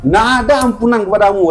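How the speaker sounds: acted refusal, rapped out fast; imitating a stern, sudden condemnation; angry rebuke. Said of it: "Nabi dengar itu".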